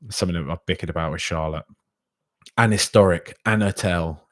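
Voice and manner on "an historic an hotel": "historic" and "hotel" with a silent h, like "istoric", "otel"; dropped H. Shown as a demonstration. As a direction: say "an historic" without the h sound. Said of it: "You drop the H and it's correct grammar".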